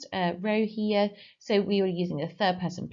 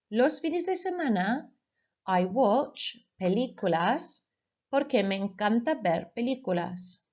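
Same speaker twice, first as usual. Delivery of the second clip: dictation read. Shown as a demonstration. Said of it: "I will say the Spanish sentence twice".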